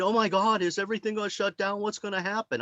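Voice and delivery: half-hearted mock panic; mock worried fretting. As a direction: rattle it off like a panicked churchgoer. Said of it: "they're all worried".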